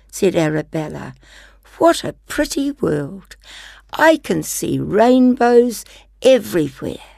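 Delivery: gentle storybook reading; reading to children. Acted. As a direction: read it like a bedtime story. Reads picture book aloud.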